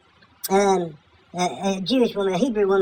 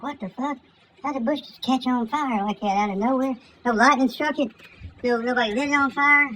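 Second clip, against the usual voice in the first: baffled Moses; 5 semitones higher than usual. Acted. Moses baffled by burning bush.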